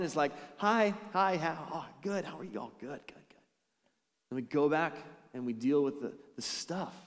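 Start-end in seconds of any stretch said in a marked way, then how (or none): 0.6-3.4 masked small talk. Acted. Churchgoers walking in wearing a mask, acted fading pleasantries. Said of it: "putting on a mask and we're walking in".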